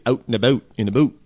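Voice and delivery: mock Canadian accent. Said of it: "not all Canadians say".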